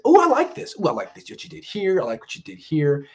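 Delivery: a hint of a delighted, supportive editor; encouraging editor. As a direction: cheer the writer on. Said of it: "someone who actually says".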